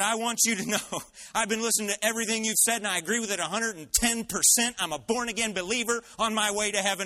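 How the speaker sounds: imitating a bystander proudly speaking up; loud declaration. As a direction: declare it loudly for the whole room to hear. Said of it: "as loud as Josh".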